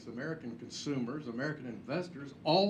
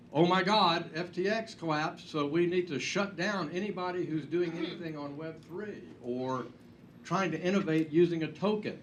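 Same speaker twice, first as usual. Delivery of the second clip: louder exclamation up front, mock-panicked overreaction; mock alarm; 2 semitones higher, 5 dB louder than usual. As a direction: imitate alarmist critics, hammed-up. Mock quote of alarmed regulators.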